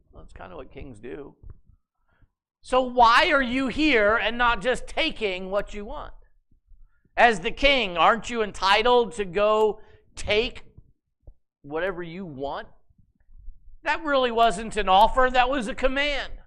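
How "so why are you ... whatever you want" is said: louder and higher, pushy and incredulous; goading. Acted. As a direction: push him to just take it. Jezebel goading Ahab.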